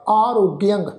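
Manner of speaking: ਆਰੋਗਿਅੰਗ with a nasal ending; nasal pronunciation. Shown as a demonstration. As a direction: end ਆਰੋਗਿਅੰਗ on a nasal -ang. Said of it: "ਨਾਸਕੀ ਉਚਾਰਨ ਹੋਏਗਾ".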